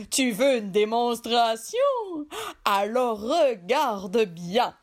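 slow, boastful genie voice. Acted. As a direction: show off like a proud genie. Genie shows off.

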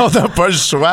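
giggling while repeating it; laughing. Acted. Laughing echo of phrase.

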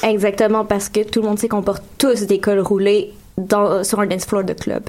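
deadpan sarcastic agreement; heavy sarcasm. Pretend. Host mocking victim-blaming about club clothes, deadpan sarcasm. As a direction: agree as if it were obvious, sarcastically. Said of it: "c'était du gros sarcasme".

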